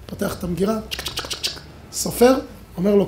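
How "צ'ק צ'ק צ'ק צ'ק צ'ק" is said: unvoiced clicking of counted notes; bill-counting clicks. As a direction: click out each banknote. Imitating counting out bills.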